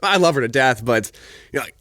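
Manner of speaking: defensive mock indignation; retold egotistical response. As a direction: replay a bruised-ego comeback. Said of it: "this very egotistical response".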